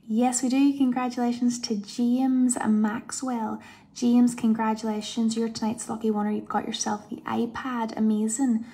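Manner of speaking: loud, joyful winner reveal; excited announcement. Real, not acted. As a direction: burst out with the good news.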